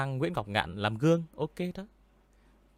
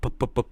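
plosive pops; 4 semitones higher, 5 dB louder than usual. Shown as a demonstration. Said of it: "nó có nhiều âm kiểu pup".

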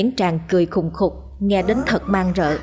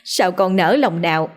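high, rising wail of grief; wailing mother; 5 semitones higher than usual. A narrator's reading. Mother wails over her son's body, high grieving cry. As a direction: cry out over her dead son, climbing higher. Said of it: "mà rống lên".

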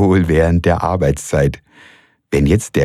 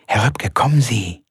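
unvoiced whisper, higher; 7 semitones higher than usual. A narrator's reading. Frau Malsen urging him out, whispered. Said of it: "sagt sie leise".

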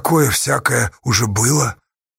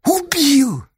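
pitched high, cry of pain; narrated cry of pain, voiced higher; anguished accusation; 14 semitones higher than usual. A narrator's reading. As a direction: fling the accusation out. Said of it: "с болью ответила Сташа".

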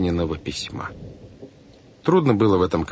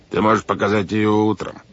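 feigned soothing; 2 semitones higher than usual. A narrator's reading. Captain puts off the boy's note, falsely soothing. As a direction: pretend to calm a child down. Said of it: "деланно успокаивающим тоном".

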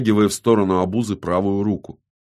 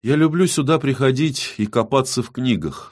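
measured; 6 semitones higher than usual. A narrator's reading. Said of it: "с прежней размеренностью".

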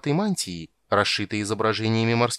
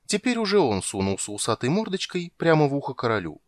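usual speaking voice

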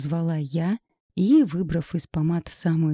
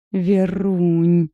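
louder rumbling call of a name; 6 dB louder than usual. Acted. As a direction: roll it out like a fond rumble. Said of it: "пророкотала подруга". (громко, раскатисто)

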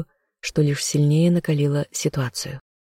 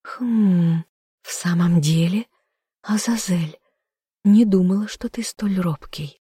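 higher, teasing smirk; 4 semitones higher, slower than usual. A narrator's reading. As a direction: tease him, amused and daring. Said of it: "усмехнулась".

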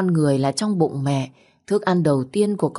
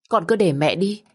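tearful plea; 2 semitones higher than usual. Acted. Mother begs to go instead.

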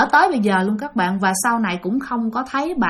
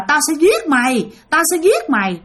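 mild mock cursing threat, pitched higher; chửi dọa; 5 semitones higher than usual. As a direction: retell a ghost's threat with a touch of anger. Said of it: "mà bả còn chửi lên". (giọng chửi dọa giết, hơi cao)

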